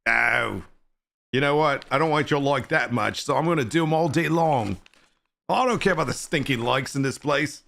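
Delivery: lightly put-on bad English accent. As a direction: defiantly lean into a hammy English accent. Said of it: "if you don't do your bad accents".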